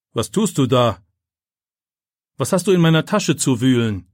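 a mild stern teacher's scolding; sharp questions to a caught boy, understated; teacher catching a boy at his bag, mildly stern. A narrator's reading. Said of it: "schimpft Herr Wagner".

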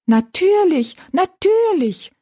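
dwarf chorus. Acted. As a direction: echo it in tiny piping voices. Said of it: "wiederholten die drei Zwergenmenschen". (Zwerge, hoch und piepsig)

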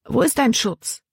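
high, pleading cry at normal volume; desperate outcry. A narrator's reading. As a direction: cry out to God, held in. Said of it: "wollte sie herausschreien".

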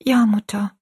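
put-on slightly lifted, subdued child's voice; quiet young daughter. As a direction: answer your mother quietly, as a girl. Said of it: "sagte Rosalie still".

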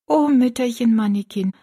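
put-on grateful young girl. Girl thanking the old woman at her bedside, touched.

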